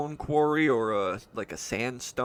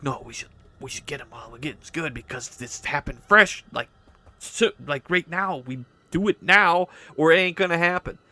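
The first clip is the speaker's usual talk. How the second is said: urgent push that builds louder and higher; arguing, getting louder; 3 semitones higher, 5 dB louder, faster than usual. Acted. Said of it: "as they're arguing, you know, they get louder and louder".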